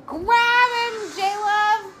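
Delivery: high loud urgent shout; frantic high yell; yelling at screen. Real, not acted. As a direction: shout a command at the movie.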